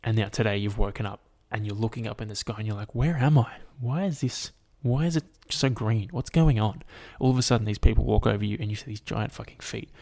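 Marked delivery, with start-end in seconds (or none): 2.9-6.8 mildly hammed-up confusion; puzzled questions, slightly lifted; acted bewilderment. Podcaster voices a human waking as an ant, acted bewilderment.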